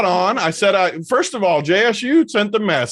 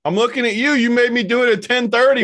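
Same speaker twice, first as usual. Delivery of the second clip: higher-pitched playful scolding; raised-pitch ribbing; mock call-out; 6 semitones higher than usual. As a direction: call out the missing friend in mock exasperation. Mock call-out of absent Hoop.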